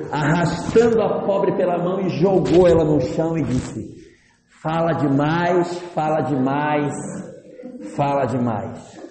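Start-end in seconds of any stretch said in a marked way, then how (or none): 4.6-9.0 slow, emphatic acted complaint; exasperated husband. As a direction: spell out each grievance slowly, utterly fed up. Homem devolve a mulher, farto. (farto, reclamando devagar e com ênfase)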